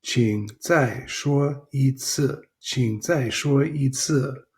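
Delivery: slow, careful teacher model; slow model phrase. Shown as a demonstration. Teacher modelling a phrase for students, slow. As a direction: say it syllable by syllable for the class. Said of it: "Please repeat that".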